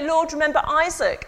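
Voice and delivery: high, loud priestly cry to the crowd; loud priest call. Acted. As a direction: call it out to a packed temple. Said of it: "then the priest would say".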